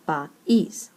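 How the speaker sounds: "país" split as pa, ÍS, the end stressed; stress on last syllable. Shown as a demonstration. Teacher explaining why país has an accent, stress on ÍS. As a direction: separate "país" and lean on ÍS. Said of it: "the strong syllable is the last syllable".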